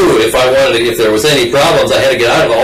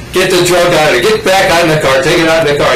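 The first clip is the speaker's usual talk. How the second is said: high-pitched camp voice, lightly mocking; camp man; 6 semitones higher, 3 dB louder than usual. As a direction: imitate a flamboyant man, pitched up. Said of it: "he flipped his wrist at, and batted his eyes".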